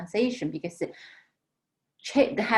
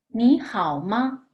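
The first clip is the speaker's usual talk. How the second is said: slow model reading; slower than usual. Shown as a demonstration. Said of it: "follow me to read this one more time".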